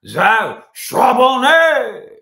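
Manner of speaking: very slow, loud, high exaggerated French; French accent. Host repeating the draft name in an overdone French accent. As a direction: savour every syllable in French. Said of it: "so I can use my French accent".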